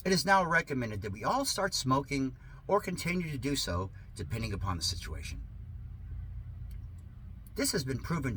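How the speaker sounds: sarcastic reading. Acted. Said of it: "Yes, this is sarcasm".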